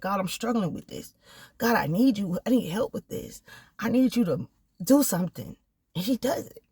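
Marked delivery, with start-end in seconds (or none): 0.0-5.6 quiet prayer. Retold or imitated. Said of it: "I can go to God and be like".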